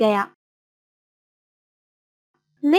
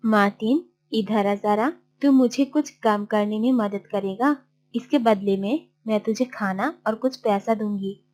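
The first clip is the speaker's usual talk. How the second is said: lower, softer character voice; coaxing aunt; 3 semitones lower, 4 dB quieter than usual. Acted. Aunt asking Martin to help with work, coaxing. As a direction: drop pitch and volume, offering a deal.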